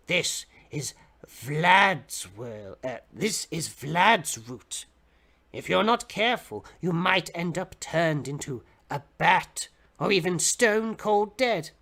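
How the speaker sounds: slow, lightly voiced odd old stranger, ominous warning; a hint of a creepy old man, very slow; strange old man. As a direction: draw it out like a half-mad old man sharing a secret. Old man on the bus warns.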